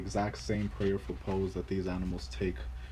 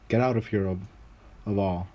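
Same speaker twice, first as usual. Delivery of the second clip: ordering him out. Acted. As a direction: send him away with a shove in the voice. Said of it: "the master would often order".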